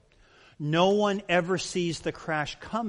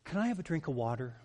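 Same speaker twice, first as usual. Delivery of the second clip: quick, softer polite asking; polite child's ask; 5 dB quieter, faster than usual. Shown as a demonstration. A child politely asking a parent for water, soft and quick. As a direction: ask sweetly like a well-mannered child. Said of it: "you know how tone of voice says everything".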